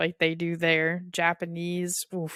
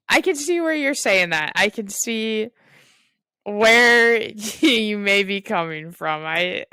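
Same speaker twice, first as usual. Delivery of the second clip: kind gentle laugh; 3 semitones higher, 8 dB louder than usual. Real, not acted. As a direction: laugh gently while agreeing. Laughing while reassuring friend.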